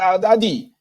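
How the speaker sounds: high, loud excited questioning; a worked-up voter confronting a man; high agitated hammed-up accusation; excited accusing mock. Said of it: "They say".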